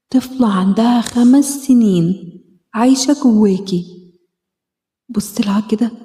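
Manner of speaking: gentle self-help meditation guide; guided healing exercise. Acted. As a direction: talk her gently through the inner-child exercise. Leads a self-hug healing exercise.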